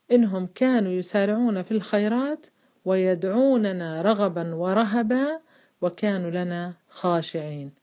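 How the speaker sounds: slow chanted tajweed recitation of the verse; قراءة مجودة بطيئة; Quran recitation. Shown as a demonstration. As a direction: recite it slowly, drawing out ورهبا. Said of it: "معي أخواتي؟".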